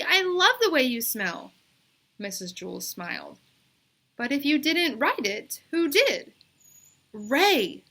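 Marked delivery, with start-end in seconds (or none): 0.0-1.5 put-on girl's insistent voice. A narrator's reading. Bebe reassures teacher. 4.2-6.3 put-on girl's insistent voice. A narrator's reading. Teacher questions Bebe. 7.1-7.8 instant reply. A narrator's reading. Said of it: "Bebe instantly replied".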